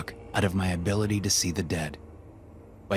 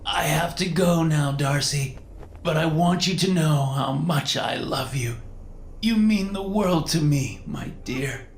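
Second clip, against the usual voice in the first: high, tearful, drawn-out goodbye; fading ghostly farewell; 10 semitones higher, slower than usual. Pretend. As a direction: fade away like a dying signal. Medium fakes fading ghost farewell.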